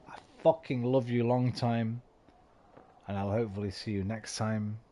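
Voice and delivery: tipsy, words running together; slurring. Real, not acted. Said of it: "Am I slurring? I'm probably slurring".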